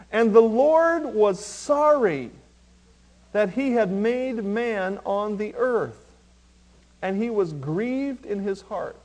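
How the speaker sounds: slow, weighty verse reading; solemn scripture reading. Shown as a demonstration. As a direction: read the verse slowly, with weight. Verse read out, later repeated softer.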